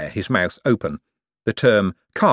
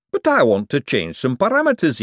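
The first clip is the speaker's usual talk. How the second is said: Hubert voice; 6 semitones higher than usual. Acted. Hubert insists.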